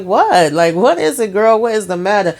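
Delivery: imitating a mother demanding an explanation; exasperated questioning. Retold mother-daughter spat.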